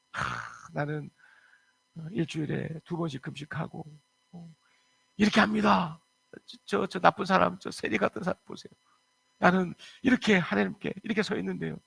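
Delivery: smug Pharisee prayer. Acted. Pharisee sneering at the tax collector in prayer, smug. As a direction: look down on the sinner while praying.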